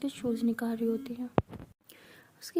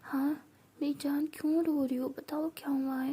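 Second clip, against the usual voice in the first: tender comforting; 2 semitones higher, 4 dB quieter than usual. Acted. Comforting crying Meera.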